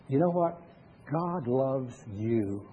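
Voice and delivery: put-on slow, gentle words to an old lady; tender reassurance. Pastor comforting a stone-faced elderly lady, slow and tender. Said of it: "and I said".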